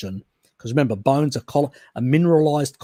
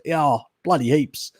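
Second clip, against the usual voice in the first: a touch of put-on broad Aussie, pitched up; thick Australian accent; 4 semitones higher than usual. Shown as a demonstration. Showing viewers his slang words, lightly exaggerated Australian. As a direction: slip into Aussie slang, a bit higher. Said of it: "I got a thick Australian accent".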